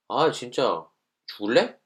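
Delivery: half-playful threat; a light jab of annoyance; mock threat. Shown as a demonstration. Student threatening the friend over the water, mildly mock angry. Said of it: "이러면 싸움이 되죠".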